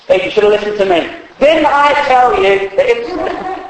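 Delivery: quick, smug know-it-all; mock gloating told-you-so. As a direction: rub it in with a fast smug tone. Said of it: "that sort of gloating".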